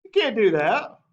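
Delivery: high, put-on voice of a young officer who can't believe it; George's protest. Young George protesting to the French, high outraged voice. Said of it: "he's like".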